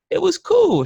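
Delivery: imitating his friend. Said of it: "Shorty was like".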